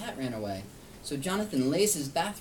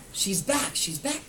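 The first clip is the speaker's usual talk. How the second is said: a touch of delighted calling; happy raised repeat; excited cry; 4 semitones higher, 4 dB louder, slower than usual. Acted. Jonathan greeting returning cat, mild excited cry. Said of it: "cries Jonathan".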